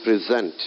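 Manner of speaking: pre-ZENT, weight on the end; stress on second syllable. Shown as a demonstration. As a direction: say "present" as the verb, stressing ZENT. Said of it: "second syllable of a verb".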